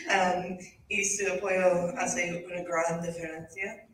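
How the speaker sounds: learner reading Spanish, American accent. Real, not acted. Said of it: "Mi español no es muy bueno".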